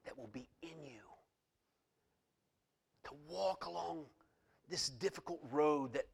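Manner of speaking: soft, hushed promise; hushed soft tender promise; tender voice of Jesus. Retold or imitated. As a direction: promise comfort in a near whisper. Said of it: "he said".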